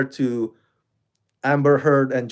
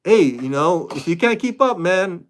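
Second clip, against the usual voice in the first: higher, challenging mock demand; a hint of a bossy boyfriend; mock pushy partner; 3 semitones higher than usual. Vlogger acts a partner pressuring a girlfriend, lightly voiced. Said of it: "expect your partner to like".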